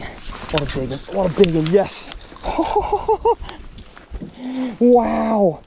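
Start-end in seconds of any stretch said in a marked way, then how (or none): 2.4-3.7 squeaky burst of laughter; real excited laugh; high giddy laugh. Real, not acted. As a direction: giggle in pure delight. After big bite.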